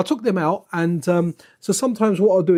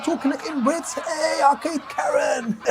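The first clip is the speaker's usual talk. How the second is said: mocking voice; 8 semitones higher, slower than usual. Mocking game character's face.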